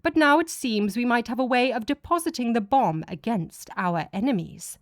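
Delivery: a hint of a commanding deity explaining his plan; god's voice. God character voice.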